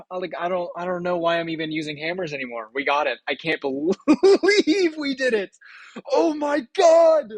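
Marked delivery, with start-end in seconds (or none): 3.6-7.3 high, loud, laughing through the words; laughing disbelief. Real, not acted. Gamer laughing in disbelief at the result. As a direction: giggle out the disbelief. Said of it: "I'm giddy right now".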